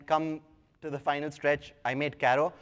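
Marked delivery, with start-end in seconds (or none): 1.9-2.5 Karo said with a slight foreign accent, the r rolled. Real, not acted. Speaker to audience naming his app, a faint foreign accent on Karo. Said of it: "I don't know why I got the accent over there".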